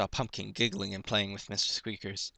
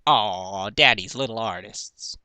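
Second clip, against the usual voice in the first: proud daddy; 5 dB louder, slower than usual. Acted. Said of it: "Mister Cake smiled proudly".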